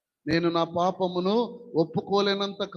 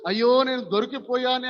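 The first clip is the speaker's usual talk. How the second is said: mock wail; 5 semitones higher, 4 dB louder than usual. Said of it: "అని దావీదు ఏడవడంలే".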